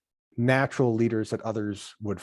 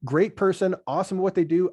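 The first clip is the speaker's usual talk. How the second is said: higher-pitched, conceding praise; acted faint praise; 6 semitones higher, 4 dB louder than usual. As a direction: grant the compliment before a reservation. Voicing colleagues' lukewarm verdict on someone.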